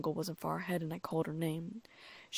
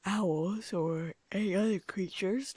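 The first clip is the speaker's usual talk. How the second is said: whispering; 2 semitones higher, 4 dB louder, slower than usual. A narrator's reading. Narrator drifting into whisper.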